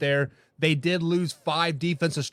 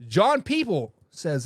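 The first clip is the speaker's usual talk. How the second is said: ordinary talk, nothing marked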